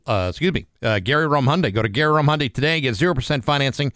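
upbeat radio sponsor read; hard sell ad. Acted. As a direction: sell the dealership offer with energy. Reads the sponsor spot.

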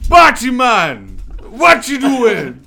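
put-on loud, slow Jamaican accent. Shouting at a climbing protester, loud Jamaican accent. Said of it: "getting yourself into Jamaican".

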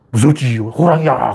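mock spooky voice, like frightening a small child; spooky tiger threat. An adult teasing a child, pretending a tiger is coming, in a mock spooky voice. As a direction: play at scaring a kid with a tiger. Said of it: "애들 겁주듯이".

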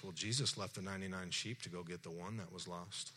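God's voice. Retold or imitated. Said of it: "it sounds something like this".

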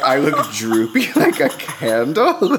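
laughing through a stunned question; laughing disbelief. Retold or imitated. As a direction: break into a high squeal of laughter. Incredulous laughing retelling.

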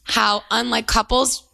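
measured read-aloud of a listener's letter. Real, not acted. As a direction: read it out clearly, phrase by phrase. Resumes reading the letter.

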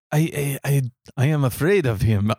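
bad French accent that comes out Mexican; halting, badly faked foreign accent, vaguely Mexican; botched French accent. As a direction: stammer it in a muddled French-turned-Mexican accent. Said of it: "mine is Mexican, apparently".

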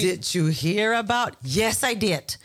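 slow gossiping Chamorro auntie; island auntie whispering gossip; Chamorro English accent. Pretend. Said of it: "do your Anticoco Chamorro accent".

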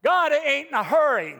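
slow, drawn-out whiny "oh dear God"; mock complaining prayer. Preacher imitating how he starts prayer by complaining. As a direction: moan it like a self-pitying complaint. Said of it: "I come in usually and it's".

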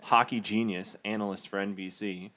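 deadpan mock praise; sarcastic. Real, not acted. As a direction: give him the title with dry sarcasm. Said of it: "That's completely sarcastic".

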